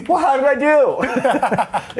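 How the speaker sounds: very high, slow, laughing; high ditzy question. Retold or imitated. Cher asks the instructor after crashing, very high slow giggly. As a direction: ask sweetly, totally oblivious. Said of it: "she goes".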